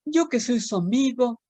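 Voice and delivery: lilting, sing-song storytelling read; animated children's poem reading. Acted. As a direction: recite it like a rhyme for little kids. Reads a children's poem aloud.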